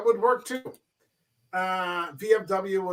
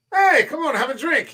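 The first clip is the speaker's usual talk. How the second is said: higher-pitched, hearty friendly invitation, lightly acted; friendly, affable character; 7 semitones higher, 4 dB louder than usual. Affable barfly inviting a pal for a drink, friendly. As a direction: call a pal over to the bar, affably. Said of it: "He's a very friendly character".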